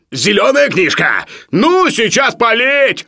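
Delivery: high, loud, drawn-out wail of dismay; desperate exclamation. A narrator's reading. Sharikov learns his book will burn, desperate. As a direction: cry out as the book is doomed. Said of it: "отчаянно воскликнул Шариков".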